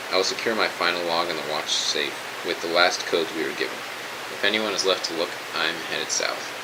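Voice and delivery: measured, official sign-off over the radio; formal military report. Acted. Major logging the abandonment of his post, formal and measured. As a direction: read it out as a solemn final log.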